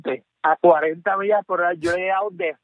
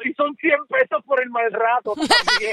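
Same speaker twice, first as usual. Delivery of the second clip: laughing while quoting; 5 semitones higher than usual. Retold or imitated. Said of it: "y me dijo".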